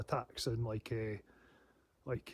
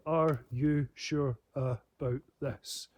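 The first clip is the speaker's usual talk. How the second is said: slow menacing stare question; 2 semitones lower, much slower than usual. Retold or imitated. Staring down a hostile man, slow and menacing. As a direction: let each word hang like a warning. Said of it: "the only words I said".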